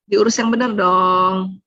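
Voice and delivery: slow, drawn-out mild scolding; mother-in-law's chiding. Acted. Mother-in-law telling a young mother off, slowly chiding. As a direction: chide with stretched-out words. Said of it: "ibu mertua bilang apa".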